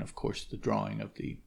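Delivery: usual speaking voice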